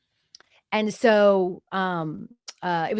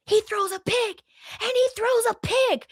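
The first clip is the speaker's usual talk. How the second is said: much higher, excited radio announcer calling the pick; mock radio announcer, high and excited; radio play-by-play call. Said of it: "in my ear, I hear".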